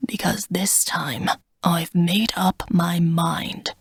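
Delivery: slow, hushed, firm dragon; resolute dragon. Acted. Smog resolves.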